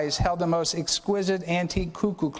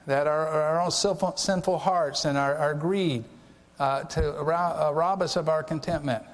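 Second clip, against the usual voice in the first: prayer. Real, not acted. Closing prayer after sermon.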